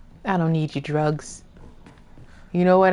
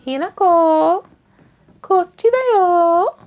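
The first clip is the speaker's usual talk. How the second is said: calling out; 11 semitones higher, 4 dB louder than usual. Pretend. Calling to a game character.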